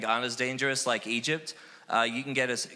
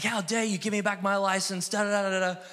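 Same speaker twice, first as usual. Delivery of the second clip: mock screaming; 8 semitones higher than usual. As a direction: act out telling off an officer. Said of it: "I started screaming at this police officer".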